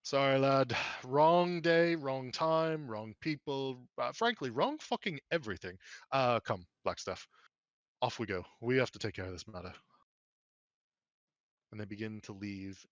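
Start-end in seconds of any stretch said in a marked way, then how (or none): 0.0-9.7 gruff Mert. Acted. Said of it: "a big hearty chuckle and he goes".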